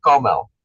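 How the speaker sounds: "caramel" squished to two syllables, "carmel". Shown as a demonstration. Showing the class the American squished "caramel". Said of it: "squished in to make caramel".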